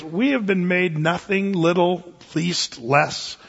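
mock-humble, then mock praise; a preacher voicing Paul's sarcasm; sarcastic. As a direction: lay the sarcasm on slowly. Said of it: "in a sarcastic way".

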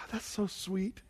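soft, tender doting remark; doting parent. Retold or imitated. Proud dad cooing at his singing toddler, soft and tender. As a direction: coo it softly like a proud dad. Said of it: "looking and going".

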